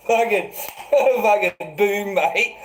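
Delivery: loud, high mock yelling; hammed-up angry heckling; mock shouted threat. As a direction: bellow it like a rowdy mob. Mocking what they'd shout at him.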